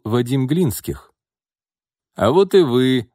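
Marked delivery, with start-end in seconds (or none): 2.2-3.1 hearty, louder, higher greeting; good-natured exclamation. A narrator's reading. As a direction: hail them like a welcome guest. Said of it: "добродушно воскликнул он". (добродушный возглас)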